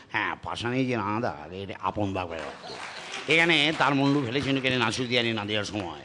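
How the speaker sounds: low, soft, quick mutter of the lines; Robi Ghosh impression. Mimicking the actor Robi Ghosh for the panel, low and quick. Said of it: "রবি ঘোষ বলতেন".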